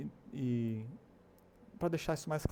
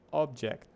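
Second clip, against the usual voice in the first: OBject, first syllable punched; stress on first syllable. Shown as a demonstration. Teacher showing learners the noun, stress on the first syllable of "object". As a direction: hit the start of "object". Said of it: "a ênfase tá no começo".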